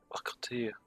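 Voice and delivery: slow mock French accent. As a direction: read it out slowly, badly faking French. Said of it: "I said that in an accent".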